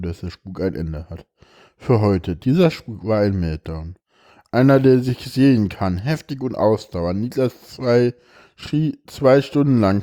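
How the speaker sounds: expressive reading aloud of a personal text; emotional reading. Acted. Reads a moving text aloud.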